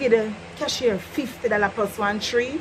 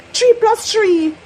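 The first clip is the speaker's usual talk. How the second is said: "Three plus three" slow and high, teacherly; slow drill; 7 semitones higher, 5 dB louder, slower than usual. Shown as a demonstration. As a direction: drill each word. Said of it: "drilling the viewer".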